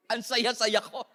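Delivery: slow, laughing fake cheer; sarcastic laughing claim of happiness; laughing mock reply. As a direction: laugh through a forced happy answer. Mock answer about loving work.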